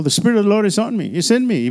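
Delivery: mock proclamation. Shown as a demonstration. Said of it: "Tell people".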